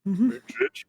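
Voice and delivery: high squeaky bitch. Pretend. Playful chain of insults.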